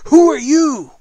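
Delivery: high, loud royal challenge; commanding royal voice. Acted. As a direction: call it down imperiously.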